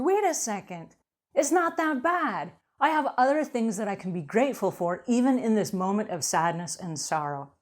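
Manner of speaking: a sudden lift of realization; bright realization. Retold or imitated. The mind turning from victim to gratitude, bright surprise.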